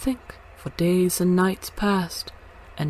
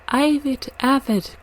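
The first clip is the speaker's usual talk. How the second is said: put-on higher, louder child's call for the story; eager cry; 8 semitones higher, 6 dB louder than usual. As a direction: shout out the choice of story. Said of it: "cried some".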